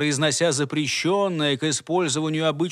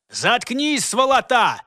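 high, loud angry snap; angry hiss; 7 semitones higher, 4 dB louder, slower than usual. Acted. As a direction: snap at him to shut up. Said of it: "шикнул Антуан".

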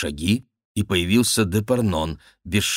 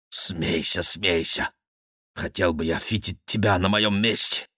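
sour retort; 4 dB quieter than usual. Acted. Mocked man answers laughing friend sourly.

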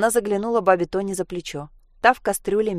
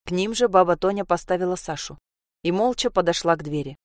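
ordinary delivery, nothing marked

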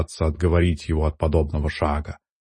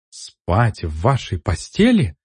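squeaky voice; 3 semitones higher than usual. Acted. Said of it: "писклявым голосом воскликнула Ивилай".

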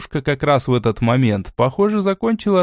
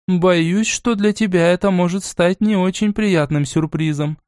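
even, calm voice with no heat; a grandmother staying composed; 6 semitones higher than usual. Acted. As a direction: break unwelcome news gently and steadily. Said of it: "произнесла бабушка спокойным голосом".

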